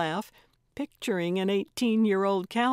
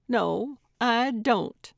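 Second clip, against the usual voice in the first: higher, louder DON'T, overdone; unnatural emphasis on DON'T; 4 semitones higher, 4 dB louder, slower than usual. A narrator's reading. Gertrude denies it to Carlotta, overemphasizing DON'T. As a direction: lean needlessly hard on the word DON'T. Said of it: "spoke the last word with an unnatural and unnecessary emphasis".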